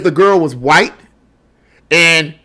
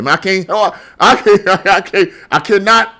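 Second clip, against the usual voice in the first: laughing; 2 semitones higher than usual. Real, not acted. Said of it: "Okay, I'm sorry".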